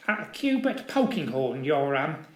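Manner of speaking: lightly voiced nervous little man; floundering. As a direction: stammer it out, flustered. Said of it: "the little squirt floundered".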